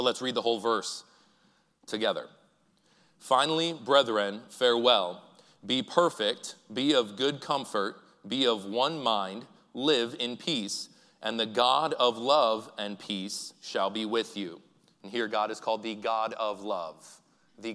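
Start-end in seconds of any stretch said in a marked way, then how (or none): 3.2-14.6 slow, louder unison reading of scripture; slow congregational scripture reading. Real, not acted. Pastor leading the church in reading Romans aloud, slow and solemn. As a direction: read it aloud together, measured and deliberate. Congregation reads Corinthians together.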